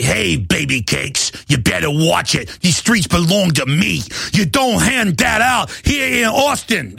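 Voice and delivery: menacing street thug, slow, ending in a shout; a hint of a movie thug threatening a woman; movie tough guy. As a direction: play the heavy threatening a girl on the street. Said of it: "That's how they said that one guy even talked, like in the movie".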